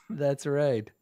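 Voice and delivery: goblin villain's drawn-out mockery; gloating taunt. Goblin boss taunts the dwarf over his beard, gloating. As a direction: stretch out the jeer at your victim.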